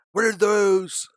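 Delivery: sudden loud high exclamation; surprised. Real, not acted. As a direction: blurt it out, startled. Surprised at odd chart candles.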